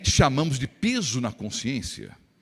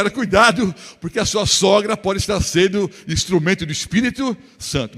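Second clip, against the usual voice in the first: retold loud warning; 6 dB louder than usual. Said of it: "Eu falei".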